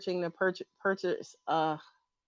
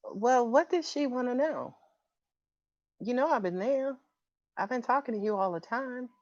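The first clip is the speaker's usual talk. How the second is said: lightly voiced late mother, a little higher; hint of a put-on motherly voice, quiet; Felicia Rashad voice; 3 semitones higher, 4 dB quieter than usual. Medium relaying a late mother's words, lightly put-on voice. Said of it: "she's talking to me in a Felicia Rashad voice".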